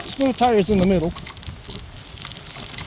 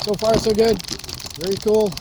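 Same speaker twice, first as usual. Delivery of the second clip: talking while riding over bumps; on a bumpy road. Real, not acted. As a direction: voice jolted by bumps. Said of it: "Sorry about the bumps".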